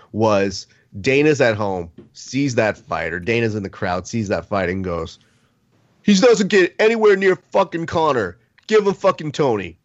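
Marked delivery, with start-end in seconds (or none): 6.0-9.8 high, forceful mock rant; imitated angry outburst. Host voicing a promoter watching the fight, angry outburst. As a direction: act out a boss laying down the law.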